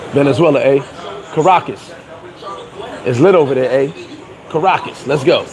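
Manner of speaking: low mock bravado; mock hyped tourist. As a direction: imitate the dudes bragging about the trip. Mocking hyped travelers.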